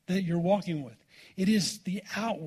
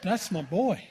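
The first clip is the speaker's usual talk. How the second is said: proud laughing dad. Retold or imitated. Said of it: "all puffed up like a banty rooster".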